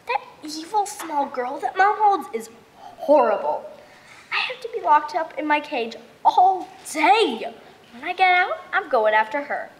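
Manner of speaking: worked-up, vengeful complaint; mad. Acted. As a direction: rant with heavy stress on the grievances. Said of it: "I'm super mad".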